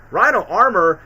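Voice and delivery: surprised. Real, not acted. The vlogger spotting a retcon mid-sentence, surprised. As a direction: catch yourself, wait, what.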